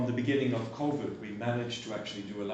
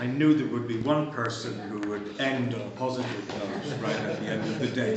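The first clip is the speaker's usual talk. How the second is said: laughing while speaking; 7 dB louder than usual. Real, not acted. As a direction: talk through a chuckle. Amused closing remark to speaker.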